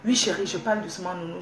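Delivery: real softened, appeasing reply; speaking softly. Real, not acted. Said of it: "je vais parler doucement".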